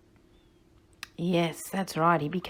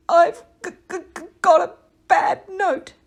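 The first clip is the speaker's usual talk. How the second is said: higher, louder nervous stammer; nervously; 9 semitones higher, 9 dB louder than usual. Acted. Nicky nervously confesses to the worm, stammering high. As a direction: stutter it out, too scared to sing. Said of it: "said nervously".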